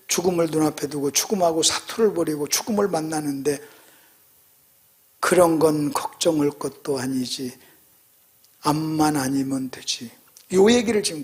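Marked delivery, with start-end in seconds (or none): 5.2-10.1 slow, low, soft musing; imitated dying pastor. Pastor facing death dismissing small worries, hushed musing. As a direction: say it slowly and quietly, with resignation. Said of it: "항상 하는 말이 있어요".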